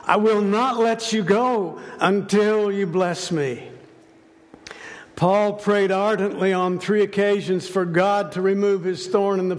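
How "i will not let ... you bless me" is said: higher, determined pleading that refuses to let go; passionate plea. Retold or imitated. Jacob wrestling with God all night, passionate plea. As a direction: plead with raised, insistent pitch. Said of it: "What was his passionate plea".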